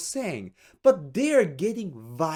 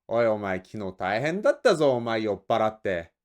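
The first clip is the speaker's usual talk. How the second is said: gruff boss; 8 semitones lower, much faster than usual. Acted. Boss scolds junior in skit.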